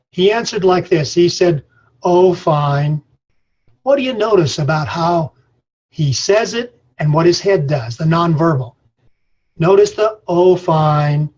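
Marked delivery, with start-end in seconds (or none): 2.0-3.0 low, lifeless "Oh, fine."; flat affect. Shown as a demonstration. Lecturer demonstrating a depressed farmer's flat reply. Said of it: "is what we call flat affect". 10.3-11.3 flat affect. Shown as a demonstration. Lecturer demonstrating a depressed farmer's flat reply. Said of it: "is what we call flat affect".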